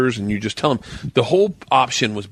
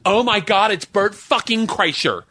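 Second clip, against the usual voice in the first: excited fan; 10 semitones higher than usual. Retold or imitated. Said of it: "his handler goes".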